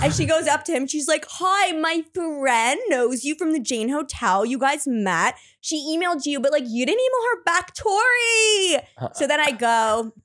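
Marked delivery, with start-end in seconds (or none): 1.3-8.8 lightly voiced friend, climbing high by the end; meddling friend. Friend confronts the guy for her, mock pushy. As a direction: imitate a pushy friend's singsong introduction.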